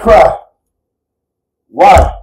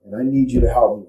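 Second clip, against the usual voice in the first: low, subdued prayer to a mentor; hushed, heartfelt request for guidance; earnest personal plea; 3 semitones lower, 4 dB quieter than usual. Retold or imitated. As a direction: plead quietly and intimately, keeping it low. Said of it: "I tell Holy Spirit".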